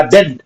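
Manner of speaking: "डेंट" set apart as one syllable; isolated syllable. Shown as a demonstration. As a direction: say "डेंट" alone, as the second beat of the word. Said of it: "यहाँ पे दो syllable निकल के आता है".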